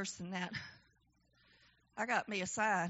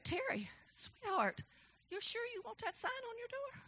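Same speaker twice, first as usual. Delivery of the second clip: gentle nurse; 10 semitones higher, 11 dB quieter than usual. Retold or imitated. Nurse gently questioning the sign on the door, soft. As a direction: ask her softly, like a worried nurse.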